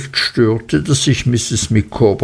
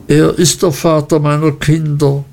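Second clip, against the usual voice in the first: schluchzend ausgerufen; 4 semitones higher than usual. Acted. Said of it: "rief Misses Micawber schluchzend".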